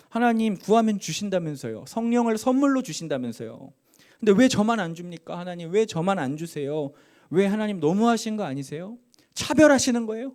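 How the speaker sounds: rising, aggrieved challenge to God; indignant protest. Retold or imitated. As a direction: reenact arguing with God, hurt and annoyed. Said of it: "짜증과 서러움과 분노가 폭발하면서 하나님께 막 따지기 시작했습니다".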